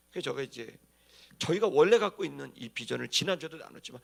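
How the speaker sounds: ordinary talk, nothing marked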